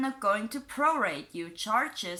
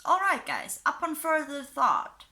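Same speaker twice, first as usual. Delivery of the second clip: pitched up high on the opening; odd-sounding read; 5 semitones higher than usual. Shown as a demonstration. Vlogger reading a fan post aloud, oddly pitched up high. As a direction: reads the post's opening oddly high and stilted. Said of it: "I don't know why that sounded".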